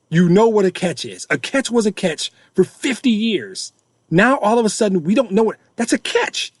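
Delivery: heated, exasperated rant at the league; getting pissed. Real, not acted. Podcaster venting at the NFL about catch rules, heated and exasperated. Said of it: "I'm getting pissed".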